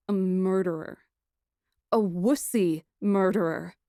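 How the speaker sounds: usual speaking voice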